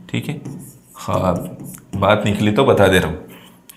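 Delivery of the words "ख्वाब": ख्वाब said softly as "khaab"; soft ख्वाब with no w sound; silent waw. Shown as a demonstration. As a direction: drop the w in ख्वाब. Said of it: "वाव की आवाज़ नहीं आती है".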